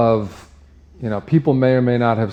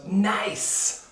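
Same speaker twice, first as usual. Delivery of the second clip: high, gushing villagers; approving village; 7 semitones higher, slower than usual. Acted. Village congratulates him on the pregnancy, high and gushing. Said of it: "The village goes".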